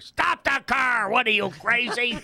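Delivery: hammed-up shocked old friend; Ernie's mock outrage. Ernie reacts in retold story.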